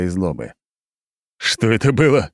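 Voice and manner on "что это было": high, louder startled yell; cried out. A narrator's reading. Bogdan cries out at the narrator. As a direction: blurt it out in fear and anger. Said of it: "выкрикнул Богдан".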